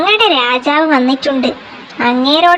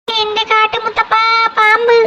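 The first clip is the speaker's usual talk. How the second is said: higher startled cry at a snake; frightened cry; 6 semitones higher than usual. Acted. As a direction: jump back in fright.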